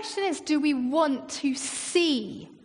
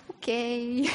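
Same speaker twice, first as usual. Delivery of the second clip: drawn-out, wary okay with rising end; uneasy okay. Acted. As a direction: stretch it out slowly, doubtful and unsure. Acting stunned servant seeing the army.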